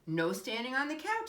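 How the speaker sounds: firm parental warning; a dad laying down a rule; stern. A narrator's reading. Dad scolds.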